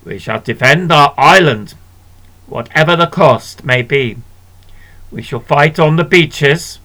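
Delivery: rally the nation like Churchill; Churchill's speech. Acted. Prime Minister addressing the Commons, stirring oration. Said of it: "made a stirring speech".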